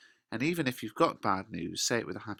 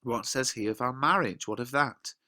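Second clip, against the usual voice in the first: put-on much higher, exasperated girl; Juliet, high and impatient; 5 semitones higher than usual. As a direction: demand the real news. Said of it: "And Juliet says".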